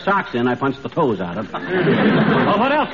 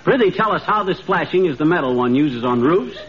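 hammy stage actor. Acted. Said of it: "the way Sir Walter Raleigh talks".

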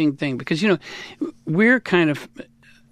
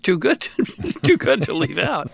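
higher, laughing through the words; 7 semitones higher, 4 dB louder than usual. Real, not acted. Guest amused by his own wild life story, laughing. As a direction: crack up while saying it.

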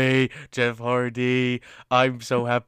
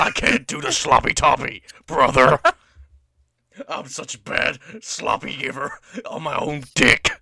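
mock Hogan promo; 4 dB louder than usual.

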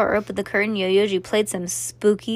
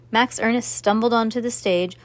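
ordinary delivery, nothing marked

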